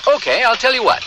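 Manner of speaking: high mock voice. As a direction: pitch it up like an excited kid.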